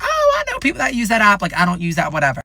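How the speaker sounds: high, put-on dad voice; dad's voice. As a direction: mimic dad dismissing the app. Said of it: "And he was like".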